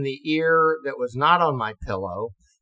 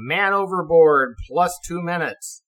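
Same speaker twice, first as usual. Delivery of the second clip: mock intercom announcement, a bit louder and higher; ship loudspeaker call; 4 semitones higher, 4 dB louder than usual. Ship's PA calling a missing man, mock announcement.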